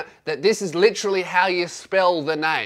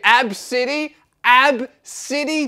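puzzled repeat; 6 semitones higher, 3 dB louder, slower than usual. Real, not acted.

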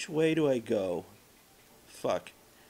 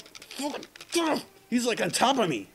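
high, loud flustered outburst; alarmed yelp; 11 semitones higher, 4 dB louder than usual. Real, not acted. Player with an enemy on top of him, alarmed yelp. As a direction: blurt it out, voice jumping high.

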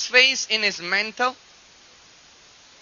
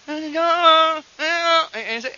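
imitated distant call; 7 semitones higher, 5 dB louder, much slower than usual. Imitating a far-off caller heard.

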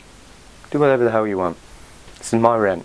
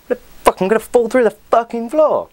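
mock panic; 8 semitones higher than usual. Imagining falling through the gym floor, mock panic. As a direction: sell the fear of falling through, half joking.

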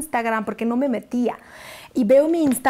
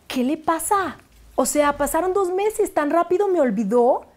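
hurt complaint; 5 semitones higher than usual. Retold or imitated. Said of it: "le dije a mi amiga".

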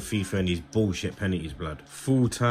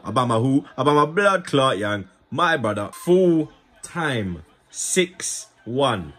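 louder, higher hype call; hyped celebration; 4 semitones higher, 4 dB louder, slower than usual. Real, not acted. Gamer cheering his striker after the win, a hyped loud call.

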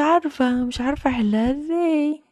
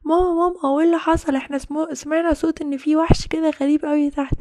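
put-on kids rushing to ask mom; children asking mom about the monster; worried children; 6 semitones higher than usual. Children call their mother.

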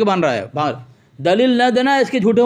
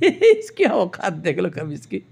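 slow, lower words through laughter; scornful laughing; 4 semitones lower, 6 dB quieter, slower than usual. Real, not acted. Debater ridiculing the would-be opponent, laughing scornfully. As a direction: laugh derisively while talking.

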